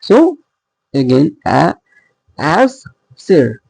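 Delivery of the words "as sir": "as" light, then stress "sir". Shown as a demonstration. Teacher scanning a poem for students, emphasis on "sir". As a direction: land the weight on "sir". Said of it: "there is emphasis on sir".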